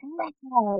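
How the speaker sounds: a pretend roar for the kids; playful lion roar. Mom showing little ones how to roar, a playful mock roar. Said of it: "you just be like".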